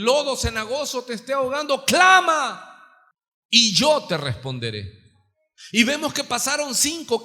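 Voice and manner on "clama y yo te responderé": calling out. Real, not acted. Exhortación a clamar.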